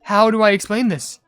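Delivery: loud, high-pitched disbelief; bewildered complaint. Real, not acted. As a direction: protest the pulls, pitch and volume up. Bewildered complaint about lucky pulls.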